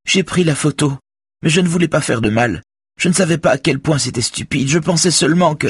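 high, distressed woman's confession; acted crying voice, spilling out excuses; tearful pleading. A narrator's reading. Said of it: "dit Véronique en pleurant".

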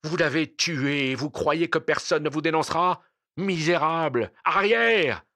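high shouted accusation; impassioned, accusing outburst; outraged cry. Acted. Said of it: "cria-t-il en s'accrochant au cercueil".

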